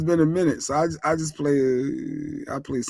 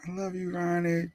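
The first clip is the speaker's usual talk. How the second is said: high, hushed fangirl call; mock fan yell; 4 semitones higher, 8 dB quieter than usual. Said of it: "y'all still be yelling".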